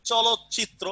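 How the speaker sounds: চলচ্চিত্র with the ত merged into চ; assimilated pronunciation. Shown as a demonstration. Teacher demonstrating চলচ্চিত্র for the class. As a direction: blend the ত into চ in চলচ্চিত্র. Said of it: "আমরা এটাকে উচ্চারণ করতেছি কি".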